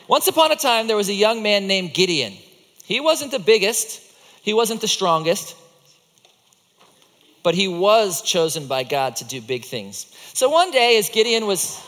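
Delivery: animated storyteller opening a tale; storybook narration. A narrator's reading. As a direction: tell it like a children's story, with lively emphasis.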